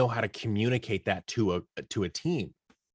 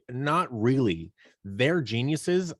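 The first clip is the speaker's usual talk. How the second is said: slow, dry, tongue-in-cheek; drawn out as a sly joke; deadpan joke; 3 semitones higher, slower than usual. Retold or imitated. Joking about his scientist family, slow and dry. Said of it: "that's a joke".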